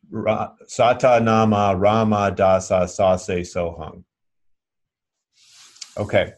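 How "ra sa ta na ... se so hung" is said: all twelve syllables said in an even demonstrating rhythm; full mantra recited. Shown as a demonstration. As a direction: recite the whole mantra, one syllable per finger. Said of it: "So this is pretty straightforward".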